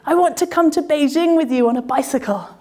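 high, eager calling out across the road; excited shout. Retold or imitated. Gao running across the road to Sarah, shouting excitedly. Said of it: "he sprints across the road shouting".

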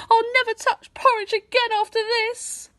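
put-on rescued boy vowing never to touch porridge; fed-up boy. A narrator's reading. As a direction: swear it off for good. Saved boy swears off porridge.

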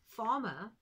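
loud call of the name. Acted. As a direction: call him over firmly. Friend calls farmer.

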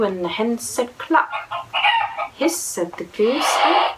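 lively storybook reading, sing-song; reading to children. Acted. Mum reading a picture book aloud to her little boy, lively. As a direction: read it like a bedtime picture book.

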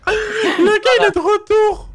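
high squealing laughter through words; laughing. Real, not acted. Laughing at returning friend.

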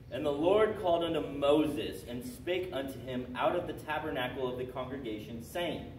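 emphatic, loud opening to a Bible verse; scripture read aloud. Real, not acted. Teacher giving the first line of a book as a clue, proclaiming it.

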